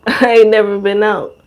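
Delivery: cracking up while quoting him; laughing through it. Retold or imitated. Retelling a friend's boast, laughing.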